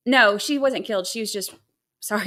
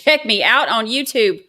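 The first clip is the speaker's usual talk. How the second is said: louder, laughing through the plug; 7 dB louder than usual. Shown as a demonstration. Streamer laughing as she plugs her YouTube channel. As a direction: laugh while plugging the channel.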